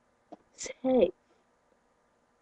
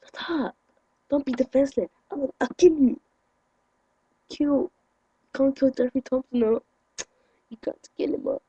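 mock angry parent; 2 semitones higher than usual. Voicing mom threatening him, mock fury. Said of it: "quoting angry parent".

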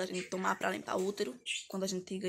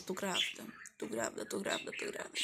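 fading to a whisper; 11 semitones lower, 9 dB quieter than usual. Retold or imitated. Retelling her repeated realization.

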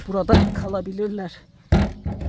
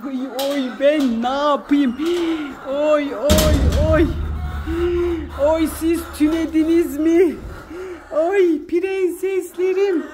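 higher, slow sing-song pet talk; fond high-pitched calls to her hens; cooing to chickens; 7 semitones higher, 4 dB louder, much slower than usual. Real, not acted. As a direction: coo at the hens like they're babies.

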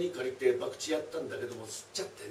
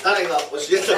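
laughing shout; 2 semitones higher, 11 dB louder than usual. Real, not acted.

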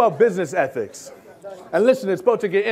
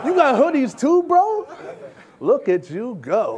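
sarcastic praise. Acted. Sarcastic praise, rising bro.

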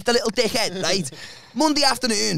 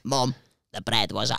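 low, soft excuse in his voice; Chris; 11 semitones lower, 6 dB quieter than usual. Retold or imitated. Friend blaming the bread to his mum, low soft voice. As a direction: murmur it right down low. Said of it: "that's how he sounds".

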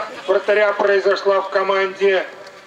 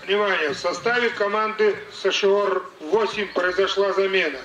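booming announcement over the stadium speakers; formal PA announcer voice; echoing stadium announcer; 17 dB louder than usual. Real, not acted.

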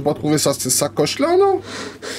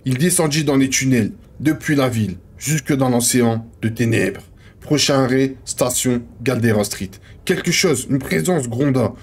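measured manuscript reading; understated literary narrator; story narration. Acted. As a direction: read it out like a novel, pausing between names. Reads manuscript page aloud.

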